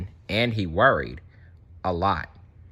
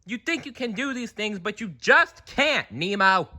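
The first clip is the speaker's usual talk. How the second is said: scolding dad; 13 semitones higher than usual. Acted. Marlin telling Nemo he can't do it. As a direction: tell him off, anxious and firm.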